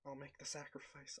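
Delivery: soft muttering aside; muttered under breath. Acted. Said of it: "I mutter under my breath".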